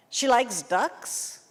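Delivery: slow mocking student question with rising tune; wrong grammar demo. Shown as a demonstration. Teacher mimics a Brazilian student's bad question, slowly. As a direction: imitate a student asking She likes ducks? with a rise. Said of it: "No, that's horrible English".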